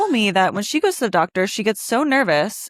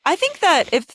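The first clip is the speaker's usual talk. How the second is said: heated rant; 6 semitones higher than usual. Real, not acted. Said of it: "I could go off on this".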